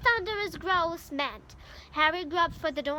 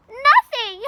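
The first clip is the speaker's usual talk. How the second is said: much louder, higher triumphant yell; gleeful shout; 6 semitones higher, 12 dB louder than usual. A narrator's reading. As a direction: crow it to mock him. Peeves gleefully refusing.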